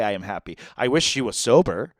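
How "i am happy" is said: quiet quote. Retold or imitated. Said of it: "moved by hearing her say".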